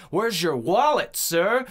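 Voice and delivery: imitated angry police questioning; frustrated cop. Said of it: "he's getting frustrated".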